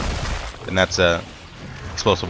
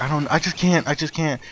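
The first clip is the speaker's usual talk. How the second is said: imitating crying; 7 semitones higher than usual. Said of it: "she's, like, crying and bawling".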